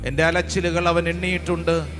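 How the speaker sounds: low, earnest prayer-leading voice over music. Acted. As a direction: guide the congregation into prayer. (പതിഞ്ഞ സ്വരത്തിൽ പ്രാർത്ഥന നയിക്കുന്നു)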